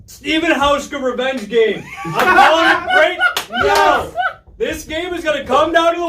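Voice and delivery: excited. Real, not acted. Bold prediction, laughing shout.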